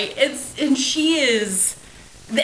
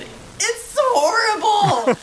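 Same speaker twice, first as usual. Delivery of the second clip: slow, drawn out; 10 semitones higher, much slower than usual. Real, not acted. Drawing out her outrage.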